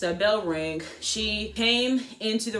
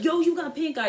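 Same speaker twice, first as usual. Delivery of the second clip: imitating friend; 9 semitones higher than usual. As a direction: point and announce it. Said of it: "she's like".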